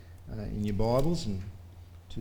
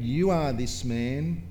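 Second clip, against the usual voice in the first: prophetic proclamation; 3 semitones higher, 3 dB louder than usual. Acted. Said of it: "then Nathan said to David".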